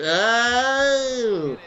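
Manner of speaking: loud, high "Oh!"; excited shout. Real, not acted. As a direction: blurt it out at the dropped catch. Reaction to dropped catch.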